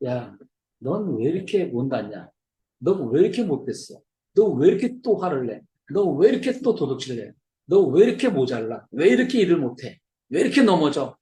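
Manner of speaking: imitated nagging in a repeated singsong pattern; mock scolding. Townsfolk below berating Punchinello, imitated nagging. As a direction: pile up reproaches, each swooping up and down. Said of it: "그 아랫 나라에서는".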